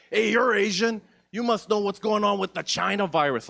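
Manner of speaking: mock racist guy. Racist guy accosts him.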